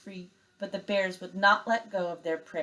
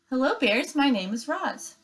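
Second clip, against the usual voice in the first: robot voice; 7 semitones higher, 3 dB louder than usual. Acted. Robot greets the bears.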